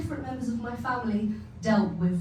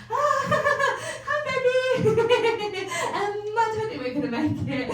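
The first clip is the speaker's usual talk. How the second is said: high, laughing, wobbly mock goodbye; hammed-up teary goodbye to boyfriend; tearful farewell call; 6 semitones higher than usual. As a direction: play the dramatic last phone call. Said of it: "I was like".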